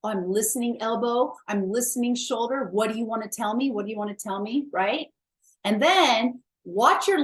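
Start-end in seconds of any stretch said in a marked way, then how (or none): 0.0-4.7 tender to body. Shown as a demonstration. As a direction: speak gently, listening to your body. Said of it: "Tell your body you love it".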